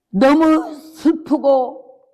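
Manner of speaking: 느리게 늘어지는 울먹임, 전라도 사투리; 슬픔에 잠겨 천천히 간구하듯; 울먹이는 기도. Retold or imitated. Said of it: "전라도 해남 사투리로 울면서 기도를". (전라도 사투리로 울며 하는 기도)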